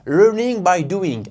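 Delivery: English phrase in a mock Norman French accent, slow. Shown as a demonstration. Teacher showing off his Normand accent on English. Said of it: "avec mon super accent normand".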